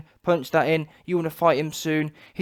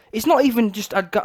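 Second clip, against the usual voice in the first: normal talking voice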